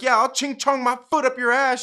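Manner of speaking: high, loud, feisty comeback; retold pissed-off wife. Wife's imagined retort to a taunt, mock fury. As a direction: imitate the wife firing back angrily. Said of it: "she's so pissed off".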